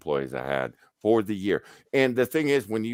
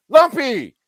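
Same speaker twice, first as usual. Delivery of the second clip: high, loud call across the room; 12 dB louder than usual. Retold or imitated. Supervisor hollering the big guy's nickname, high and loud.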